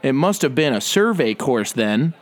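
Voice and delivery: slow, condescending Harvard snob; smug preppy voice. Acted. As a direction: talk down to him slowly. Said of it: "Harvard preppy douchebag who's super entitled".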